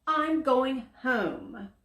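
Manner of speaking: high, slow put-on zebra voice; the zebra walking off in a huff; huffy zebra. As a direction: sulk as you leave. Zebra leaves, upset.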